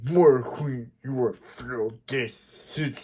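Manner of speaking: lightly voiced tough hero, slow and menacing; a hint of a vigilante calling out his mother; understated slow threat; badass confrontation. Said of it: "he busts in all badass".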